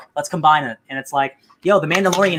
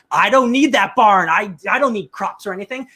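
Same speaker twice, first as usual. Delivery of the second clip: stubborn denial; 4 semitones higher than usual. Retold or imitated. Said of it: "he's like".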